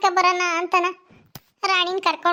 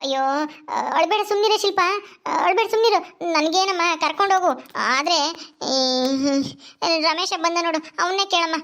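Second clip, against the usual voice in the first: consoling mother-in-law. Acted. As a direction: hush a crying neighbour. Voices mother-in-law explaining.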